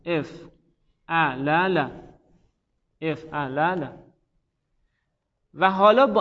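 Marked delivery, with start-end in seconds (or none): 0.1-3.9 افعلل stretched out very slowly, every syllable separate; افعلل drawn out, syllable by syllable; slow spelled-out demo. Shown as a demonstration. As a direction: drag out each syllable of افعلل for the class. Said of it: "افعلل بوده".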